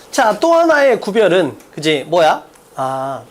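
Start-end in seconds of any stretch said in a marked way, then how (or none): 0.1-1.6 또 하나의 구별은 slow and forceful; strong reading. Shown as a demonstration. Teacher reading out the second distinction, strong reading. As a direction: lean hard on 또 하나의 구별은, stretching it. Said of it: "세게 읽으면 끝이잖아".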